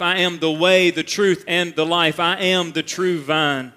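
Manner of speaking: preacher proclaiming the seven sayings; solemn recitation. Acted. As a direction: build the list like a declaration.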